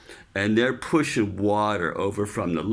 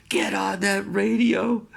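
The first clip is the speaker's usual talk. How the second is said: higher, mock barked order; chief's order; 9 semitones higher than usual. Chief ordering the sailor onto the radio, barked. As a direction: order him back to work. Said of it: "the chief goes".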